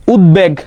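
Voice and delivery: উদ্বেগ with both d and b fully sounded; clear consonant demo. Shown as a demonstration. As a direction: articulate ud-beg crisply in উদ্বেগ. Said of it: "উদ্বেগ একদম clear".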